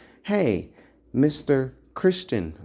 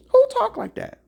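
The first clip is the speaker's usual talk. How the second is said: Who shouted much higher and louder; shouted question; 4 dB louder, faster than usual. Real, not acted. Preacher shouting Who at his listeners. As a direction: fling Who at the crowd.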